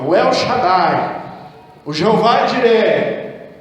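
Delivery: slow, drawn-out lofty names of God; mock grand naming. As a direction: roll out the fancy names slowly. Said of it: "Põe os nomes bonitos".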